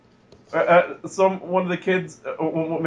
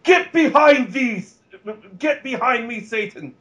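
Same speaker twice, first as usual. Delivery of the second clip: mock exorcism; 5 semitones higher than usual. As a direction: cast out the devil, hammed-up. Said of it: "Daniel Bryan sees the goat face".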